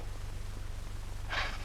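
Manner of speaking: soft, breathy chuckle; laugh. Acted. Amused on the phone to a friend, soft laugh.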